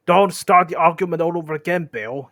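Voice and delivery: high, cross troll voice; Bert's squeaky voice. Acted. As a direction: squeak out the complaint loudly. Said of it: "I'm trying to give Bert the, the squeaky voice".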